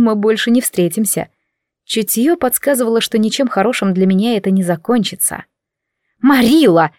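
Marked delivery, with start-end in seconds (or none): 6.2-6.9 barked. Acted. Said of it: "рявкнула женщина".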